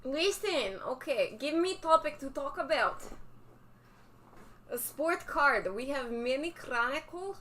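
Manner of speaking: playful fake Russian accent. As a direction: keep hamming the Russian accent. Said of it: "ridiculous Russian accent".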